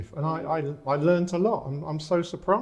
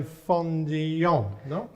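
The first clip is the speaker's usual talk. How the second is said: slow Spanish pronunciation; Spanish accent; much slower than usual. Shown as a demonstration. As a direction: say Fondillon the Spanish way, slowly. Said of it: "In my poor Spanish accent".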